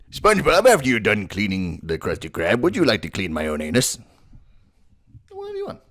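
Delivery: lightly voiced crusty boss; Mister Krabs voice. Shown as a demonstration. Voice tutor demoing Mister Krabs to SpongeBob. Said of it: "then you can just kinda say anything".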